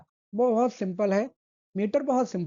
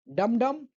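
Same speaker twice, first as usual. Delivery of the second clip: "डम डम" with both beats equally stressed; two even, firm hits on डम डम; spondee beat demo; much slower than usual. Shown as a demonstration. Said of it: "जैसे स्पॉन्डी का". (दोनों डम पर बराबर ज़ोर)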